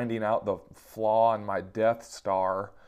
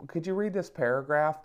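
higher, sing-song mock of his wife; 6 semitones higher than usual. Husband mimicking how his wife's request felt to him, higher mock voice. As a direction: mimic her sweetly demanding request. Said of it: "That's not how she sounds, but that's how I took it".

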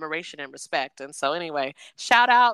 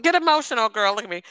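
playful urging; 5 semitones higher, 4 dB louder, faster than usual. Retold or imitated. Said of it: "I was like".

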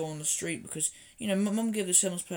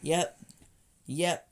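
impatient shopper; 7 semitones higher, 4 dB louder than usual. Retold or imitated.

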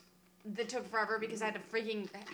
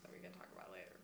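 leaning in to whisper; 22 dB quieter, faster than usual. Real, not acted. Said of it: "we're trying to whisper".

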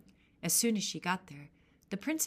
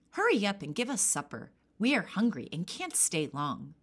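loud, demanding wind daughters; bossy wind girls; 4 dB louder than usual. Acted. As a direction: demand supper impatiently.

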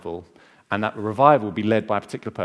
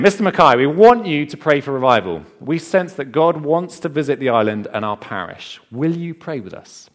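higher, louder pleading Mister Mackay; feisty old ladies; 5 semitones higher, 8 dB louder than usual. Retold or imitated. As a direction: urge the minister as a feisty old lady. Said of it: "two very feisty old ladies".

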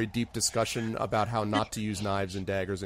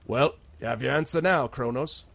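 lightly voiced bartender; a hint of a tavern keeper addressing a newcomer; slightly raised bartender voice; 2 semitones higher than usual. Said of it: "bartender ... nods his head and is like".

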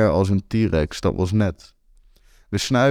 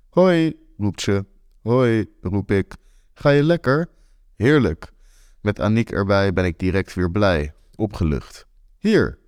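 excited greeting. Acted.

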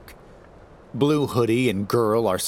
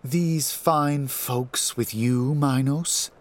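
taunting demon; 6 semitones higher, slower than usual. A narrator's reading. Typhon taunting.

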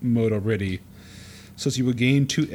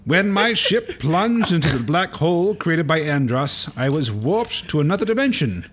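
1920s pugilist voice. Acted. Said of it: "Fox's father is a pugilist from the nineteen twenties".

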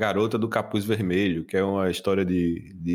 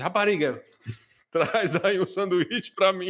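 high-pitched mock-angry demand; retold angry venting; 8 semitones higher than usual. Student ordering from the snack girl, mock-angry. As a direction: imitate venting through a food order, pitch raised. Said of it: "tava com raiva da".

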